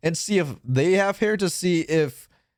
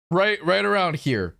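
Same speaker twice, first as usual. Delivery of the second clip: high voice demo. Shown as a demonstration. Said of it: "my voice is, like, here".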